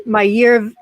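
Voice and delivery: playful quip that tips into a long laugh; joking, then laughing. Real, not acted. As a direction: crack yourself up on the punchline. Joke on film title, breaks into laughter.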